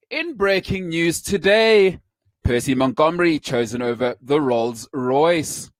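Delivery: slow, formal newsreader delivery; news voice. Shown as a demonstration. Host putting on his news voice for the audience. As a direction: read it like a breaking news anchor. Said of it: "Let me get my news voice on".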